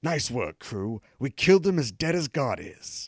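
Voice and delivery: mock British catchphrase; lightly hammed-up British captain; teeth-clenched British accent. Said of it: "delivered in his teeth-clenchingly British accent".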